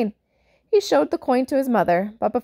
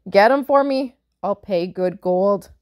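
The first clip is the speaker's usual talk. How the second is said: giant demand; 5 dB louder than usual. Acted. Giant demands false teeth.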